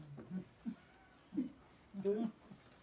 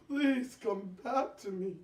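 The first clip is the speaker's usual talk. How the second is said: louder repeat of the plea; pleading louder; 2 semitones lower than usual. Acted. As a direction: beg again, louder. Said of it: "he was crying".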